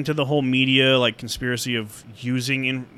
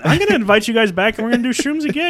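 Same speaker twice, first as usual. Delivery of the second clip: mock excited Joe; 9 semitones higher, 4 dB louder, faster than usual. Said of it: "he'd be like".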